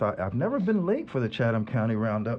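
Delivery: slightly breathless after rushing in; out of breath. Real, not acted. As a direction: talk while still catching your breath. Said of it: "I'm a little out of breath".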